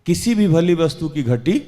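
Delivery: emphatic call for a response; preacher's prompting question. Real, not acted. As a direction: prompt the congregation to answer. Preacher prompts congregation to answer.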